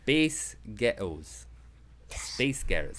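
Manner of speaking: drawn-out American-accented take. Shown as a demonstration. Dad repeating the word trick, American accent. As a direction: stretch the words in an American accent. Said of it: "in an American accent".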